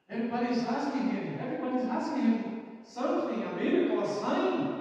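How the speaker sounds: high, eager chatter; a buzz of wonder; excited crowd. Retold or imitated. Crowd marvelling at Jesus, excited. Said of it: "the crowd said".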